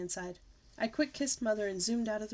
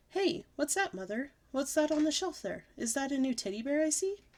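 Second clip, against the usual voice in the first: high eager questions; light kid excitement; excited discovery; 6 semitones higher than usual. Acted. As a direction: spot a new toy. Child spotting toy.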